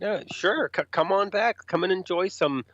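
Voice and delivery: a hint of a fake-welcoming host; sarcastic invitation. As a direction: sarcastically wave them backstage.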